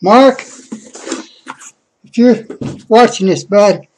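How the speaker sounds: breathless, between gasps; out of breath. Real, not acted. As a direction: talk while catching your breath. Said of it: "oh, I'm out of breath".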